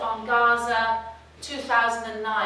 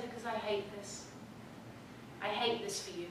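retold anguish; 14 dB quieter than usual. Tearful answer retold to mother.

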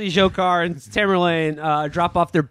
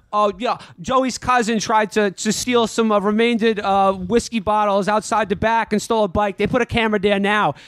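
raised-pitch Boston local know-it-all; Boston shithead; 4 semitones higher than usual. Acted. Boston local telling investigators where cameras are, cocky raised voice. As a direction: rattle off local gossip like a Boston lowlife. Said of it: "being a Boston shithead".

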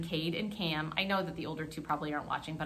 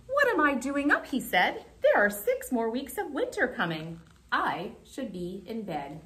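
higher, louder startled cry; alarmed surprise; 5 semitones higher, 4 dB louder than usual. Acted. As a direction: realize winter is coming, startled. Groundhog alarmed at his shadow.

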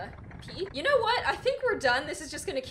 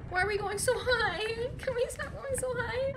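scared whimper; 9 semitones higher than usual. Real, not acted. Scared on VR coaster climb.

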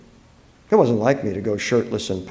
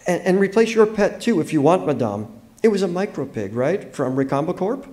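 put-on higher, eager-to-please girl; hesitant young girl; 6 semitones higher than usual. A narrator's reading. Girl offering Allison a new pet, hesitant and higher. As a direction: stumble into the offer in a girl's voice.

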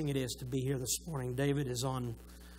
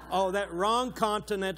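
louder, higher "Oh, that wrong continent" tossed off as a joke; jokey self-correction; 5 semitones higher, 4 dB louder than usual. Real, not acted. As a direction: catch the slip with a laugh in the voice. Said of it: "I'm sorry".

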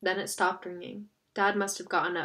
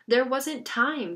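slow, louder, higher-pitched surly retort; 5 semitones higher, 5 dB louder, slower than usual. A narrator's reading. Jonah defending himself to Chip over the lost papers, surly. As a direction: snap it out slowly, with surly emphasis. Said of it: "his voice unnecessarily surly".

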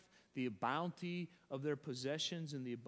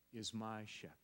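hushed whisper, almost breathless; 5 semitones lower, 6 dB quieter than usual. Real, not acted. Preacher reciting the psalm to the congregation in a whisper. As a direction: drop to a whisper on the last words. Whispered scripture line in sermon.

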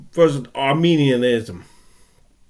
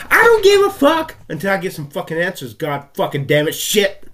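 angry outburst; 2 semitones higher than usual. Real, not acted. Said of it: "I'm angry at God".

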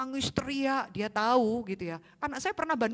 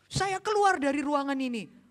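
stern threat; 8 semitones higher, 4 dB louder than usual. Retold or imitated. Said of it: "saya sendiri lihat hamba Tuhan".

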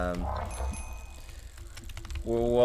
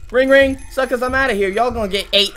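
mocking taunt; 3 semitones higher, 7 dB louder than usual. Real, not acted. Taunting friends, escaping.

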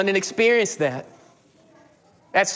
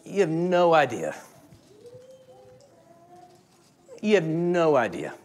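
admiring little brother; 3 dB quieter than usual. Retold or imitated. Little brother bragging about his big brother, lightly voiced. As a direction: say it in awe of your brother. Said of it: "Liam goes".

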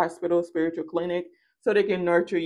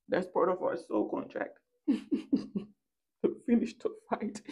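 hushed whisper with a laugh; whispered aside; 7 dB quieter than usual. Acted. A whispered warning to the rival. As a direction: whisper it like a secret.

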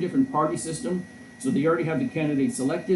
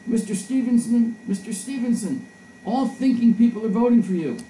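high-pitched mock yell from the crowd; imitated woman's yell; 8 semitones higher, 4 dB louder than usual. Woman supporter to candidate mid-speech, imitated yell. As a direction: call out high like a heckling admirer. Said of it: "a woman yells".

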